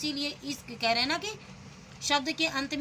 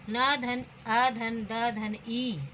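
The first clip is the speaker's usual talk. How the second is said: slow spelling out; much slower than usual. Shown as a demonstration. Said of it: "नदी".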